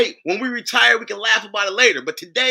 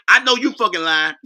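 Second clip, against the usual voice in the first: imitating brown skin lady. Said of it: "As brown skin lady would say".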